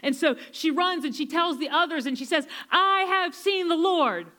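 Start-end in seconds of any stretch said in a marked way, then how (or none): 2.7-4.3 higher, slow, exultant proclamation; joyful announcement. Retold or imitated. Mary tells the others, slow and exultant. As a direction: proclaim it like the best news ever.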